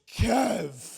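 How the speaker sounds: retold happy-to-see-you shout; calling out. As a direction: holler a friend's name across the room. Friend calls out in recognition.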